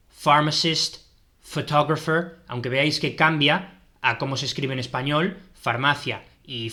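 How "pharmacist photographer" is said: Pharmacist and photographer both starting with F. Shown as a demonstration. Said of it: "se pronuncia como una F".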